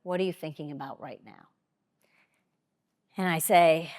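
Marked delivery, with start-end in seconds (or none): 0.0-1.5 quiet question. Retold or imitated. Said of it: "he says quietly".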